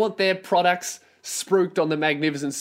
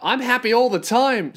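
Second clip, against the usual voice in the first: lightly mocking sing-song cheer, a touch higher; fake cheery radio voice; 6 semitones higher than usual. Mocking a radio host's fake always-happy voice. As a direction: play the always-happy host. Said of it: "do the pretend".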